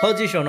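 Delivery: পজিশন said with a breathed "ph" start; P as aspirated ফ. Shown as a demonstration. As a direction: puff air on the P of পজিশন. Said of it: "পি এর উচ্চারণ ফ হবে". (পজিশন বলুন ফ দিয়ে শুরু করে)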